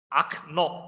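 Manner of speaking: Okno pronounced ak-NO, in two separate beats; O read as A. Shown as a demonstration. Teacher explaining unstressed O, Okno as ak-NO. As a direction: open the first O of Okno to a short ah. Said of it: "係讀啊嘅".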